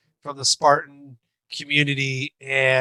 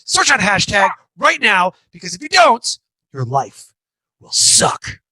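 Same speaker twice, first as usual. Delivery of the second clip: drill sergeant voice; 3 semitones higher than usual. Pretend. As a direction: yell orders like a boot camp drill sergeant. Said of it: "give me a drill sergeant".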